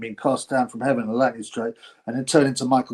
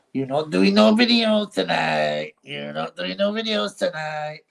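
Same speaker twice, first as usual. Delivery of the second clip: mimicked catchphrase; slower than usual. Mimicking a posted catchphrase, drawn out.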